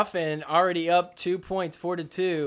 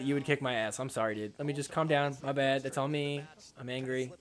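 meek apology; 4 semitones lower, 9 dB quieter than usual. Retold or imitated. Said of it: "And then he's like".

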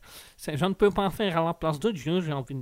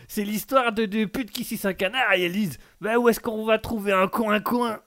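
higher corny uncle voice; Tonton Jackie; 5 semitones higher than usual. Acted. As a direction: sell the bad joke, pitched up. Uncle tells the joke fully. (tonton ringard qui raconte sa blague, voix plus haute)

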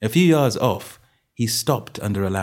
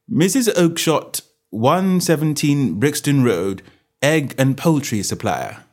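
slow, raised-pitch ledger reading; detective reading out an address deliberately; reading aloud; 6 semitones higher, 4 dB louder than usual. Acted. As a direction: spell out each item of the entry. Holmes reads the ledger aloud.

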